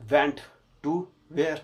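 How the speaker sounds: went said loud, then to where? as an open question; quizzing the class. Shown as a demonstration. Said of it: "quiz the class". (कक्षा से ज़ोर से पूछा गया सवाल)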